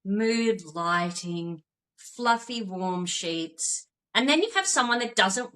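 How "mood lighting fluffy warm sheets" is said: soothing. Pretend. Painting a calm bedtime scene.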